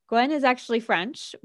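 put-on hammy French accent, rising at the end. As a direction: say it like a bad French impression. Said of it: "that terrible French accent right there".

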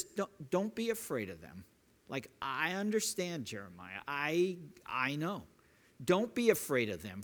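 God gently calming Jeremiah's fear; gentle, kind God. Retold or imitated. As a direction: comfort him gently. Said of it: "so gentle, so kind".

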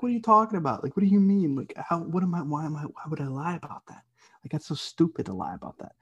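high-pitched incredulous protest, easing down; retold indignation. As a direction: protest it in mock outrage, starting high and settling. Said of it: "made me super angry".

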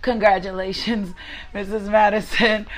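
congratulations breaking into a happy laugh; laughing with joy. Real, not acted. Preacher congratulates a newly married listener, laughing warmly. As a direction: laugh through the name, delighted. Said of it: "that just made me smile".

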